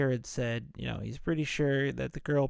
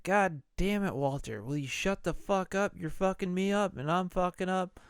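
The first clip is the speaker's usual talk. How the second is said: higher-pitched mock rant; retold outburst, pitched up; mock exasperated scolding; 6 semitones higher than usual. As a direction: act out fed-up scolding. Acted scolding of Walter in retelling.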